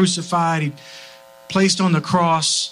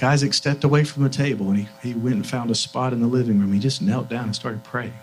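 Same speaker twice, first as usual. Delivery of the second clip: low voice, sinking softer; hushed recollection; 5 semitones lower, 5 dB quieter than usual. Real, not acted. Father recalling his son praying, low and hushed. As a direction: let the voice sink to a hush.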